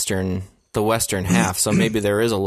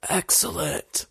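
high, soft surfer-slacker exclamation; mock airhead dude catchphrase; Bill and Ted; 8 semitones higher, 5 dB quieter than usual. Joining the co-host's joke, high mock slacker dude. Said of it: "more like Bill and Ted".

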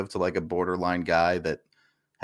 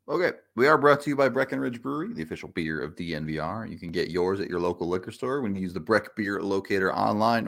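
ad read. Acted. Sponsor ad read.

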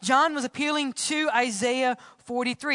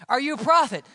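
raised, louder questioning voice; pressing question; 4 semitones higher, 5 dB louder, faster than usual. Acted. Delegation coming to John to question him, pressing.

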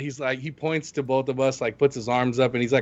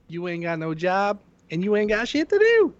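mocking rant; 8 semitones higher than usual.

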